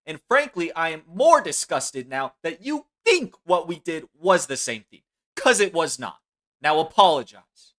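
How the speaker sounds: outraged dressing-down; indignant scolding. Real, not acted. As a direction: scold with rising indignation, ending on a loud demand. Heated scolding, demanding an apology.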